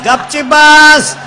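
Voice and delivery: father bellows गपची बस at his son, slow and loud; slow angry yell. Retold or imitated. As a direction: shout गपची बस slowly and furiously. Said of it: "ते बापाला म्हणायचं".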